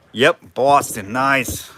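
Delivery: slow mock Boston accent; badly imitated Boston twang, drawn out. Auctioneer butchering the bidder's accent, slow mock Boston. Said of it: "You're butchering the accent".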